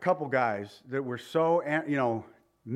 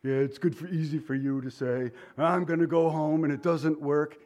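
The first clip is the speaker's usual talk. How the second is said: skeptical listener. Retold or imitated. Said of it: "somebody sitting here right now going".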